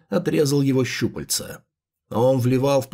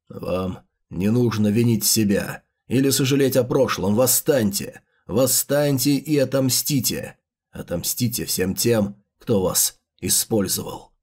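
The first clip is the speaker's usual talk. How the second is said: villain rallying speech; 4 semitones lower than usual. Acted.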